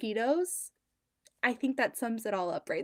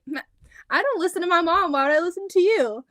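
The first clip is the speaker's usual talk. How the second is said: put-on higher, louder, quick cheeky kid; sassy Zoe; 7 semitones higher, 7 dB louder, faster than usual. Daughter sassing mom's boss, cheeky and quick. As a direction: toss it back like a defiant little girl. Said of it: "And Zoe was like".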